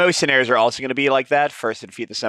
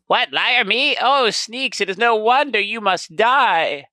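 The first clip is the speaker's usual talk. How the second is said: high, squeaky indignant goblin; 10 semitones higher, 3 dB louder, slower than usual. Acted. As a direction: squeal back at the accusation. Goblin story dialogue, second chapter.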